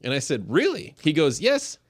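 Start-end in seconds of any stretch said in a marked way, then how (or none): 0.5-1.0 surprised. Retold or imitated. Surprised reply to the MC. 1.4-1.8 high, amused German host voice; mock German MC. Quoting German MC Richard.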